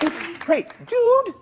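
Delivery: lightly imitating a laid-back dude; mock surfer dude. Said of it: "He's like".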